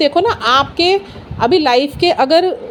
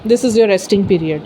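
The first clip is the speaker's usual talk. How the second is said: soft message; 5 semitones lower, 6 dB quieter, much slower than usual. Retold or imitated. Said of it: "universe का message आता है".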